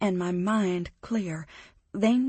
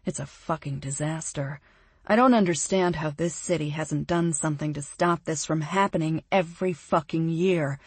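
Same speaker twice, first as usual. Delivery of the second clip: disgusted; 3 semitones lower than usual. Acted. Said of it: "he says disgustedly".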